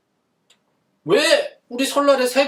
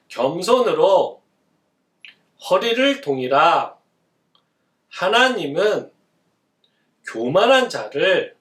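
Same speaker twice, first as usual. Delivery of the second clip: put-on slow, phrase by phrase, pausing for the children to repeat; slow recitation; 4 semitones lower, slower than usual. Shown as a demonstration. Teacher reciting a verse slowly for children to repeat. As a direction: read the verse slowly for kids to echo. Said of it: "나를 한번 따라해 볼래?".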